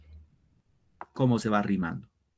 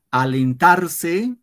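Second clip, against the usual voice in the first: "Alentarse" slow, higher and louder; slow stressed demo; 5 semitones higher, 5 dB louder, much slower than usual. Shown as a demonstration. Teacher showing pupils the rhyme ending, slow and emphatic. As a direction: spell out "Alentarse" slowly for the class. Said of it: "fíjense".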